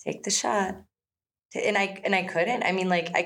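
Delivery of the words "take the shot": imitating a calm, hushed coach; level, unhurried murmur of instruction; calm guide. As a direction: talk them through it calmly. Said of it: "he's so calm".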